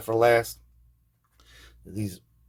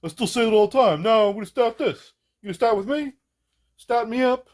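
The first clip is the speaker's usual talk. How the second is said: higher, playful Brooklyn "stat" voice; mock Brooklyn accent; 11 semitones higher, 6 dB louder than usual. Imitating the friend's Brooklyn "stat", joking. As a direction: tease with a Brooklyn twang on "stat". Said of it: "he'd probably".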